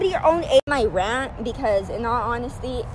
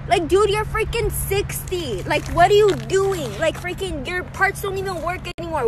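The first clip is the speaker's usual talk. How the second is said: exasperated scolding; 4 semitones higher than usual. Real, not acted. Ranting at slow-driving older man.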